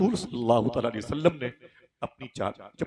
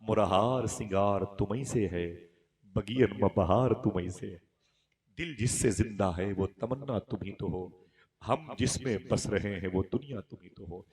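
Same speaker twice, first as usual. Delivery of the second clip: verse spoken with lingering words; devotional verse recitation. Acted. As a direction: recite it as a loving tribute, drawing out each phrase.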